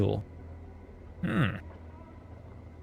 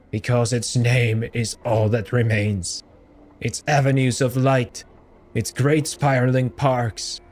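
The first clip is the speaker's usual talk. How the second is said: grieving monk. Acted. Grieving crier telling the stranger of his city, solemn. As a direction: mourn it.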